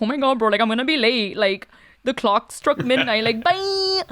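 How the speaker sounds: put-on thick, laid-on Miami Latino accent. Recalling her old Disney princess dubs, voicing a princess in a Laritza heavy Miami accent. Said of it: "the most Miami pesada accent you can think of".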